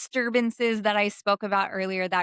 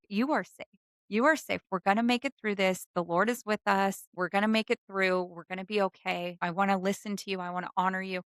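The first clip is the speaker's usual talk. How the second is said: reassuring self-talk. Shown as a demonstration. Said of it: "you're saying".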